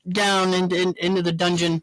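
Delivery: laughing through the words. Real, not acted. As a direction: giggle it out. Laughing while describing the basement.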